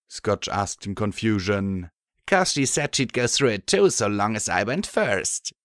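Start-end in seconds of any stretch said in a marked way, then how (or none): 2.3-5.5 unhealthy grin. Acted. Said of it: "with a decidedly unhealthy grin".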